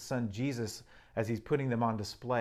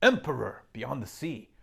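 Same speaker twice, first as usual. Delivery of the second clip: stern Mister Beaver; 5 semitones higher, 8 dB louder than usual. Acted. Mister Beaver sternly telling the children who Aslan is, loud and proud. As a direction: boom out the lion's greatness. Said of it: "said Mister Beaver sternly".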